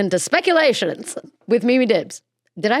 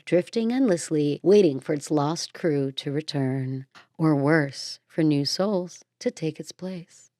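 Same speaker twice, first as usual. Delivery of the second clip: spooky narration. Acted. Host warns listeners about the ghost ship, spooky hush. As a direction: draw listeners in like a ghost story.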